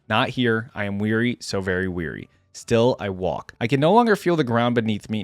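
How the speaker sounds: measured, solemn first-person narration; dramatic story reading. A narrator's reading. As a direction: read it like a weary lone warrior's grave account. Reads first-person story aloud.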